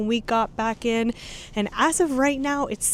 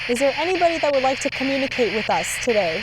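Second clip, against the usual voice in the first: loud, fast call into the dark; calling out to spirits; 2 semitones higher, 5 dB louder, faster than usual. Real, not acted. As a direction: call out to any ghost nearby.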